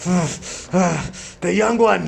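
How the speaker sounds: high, loud pained cry; loud grieving call; anguished cry. Acted. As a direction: cry out over the fallen youth. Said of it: "he says".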